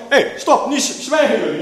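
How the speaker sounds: high, loud mock reprimand; imitated sharp telling-off, pitched well up; crowd silencing. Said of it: "zei van".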